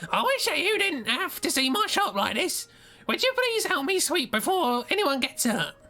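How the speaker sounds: very high falsetto. A narrator voices Isabella, who beckons the player to her shopfront, high falsetto. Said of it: "she also had high-pitched falsetto".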